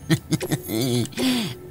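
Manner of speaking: low, quiet chuckle. Real, not acted. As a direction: chuckle softly to yourself. Chuckles at own rambling.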